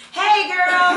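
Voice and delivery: high, loud laughing hello; laughing greeting. Retold or imitated.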